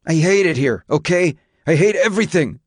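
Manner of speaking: put-on high, upset teenage outburst; breaking with emotion. A narrator's reading. Son telling his father he hates it here, overwrought. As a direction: let it burst out high and distraught. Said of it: "Jacob's voice broke with emotion".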